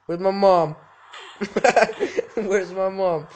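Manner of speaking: mock loud demand. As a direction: insist on the answer. Repeated demand.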